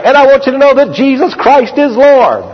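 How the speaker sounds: high, ringing pulpit proclamation; preaching. Retold or imitated. Preacher proclaiming to a crowd through a translator, high preaching voice. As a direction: imitate yourself preaching to a crowd. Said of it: "I would be preaching like".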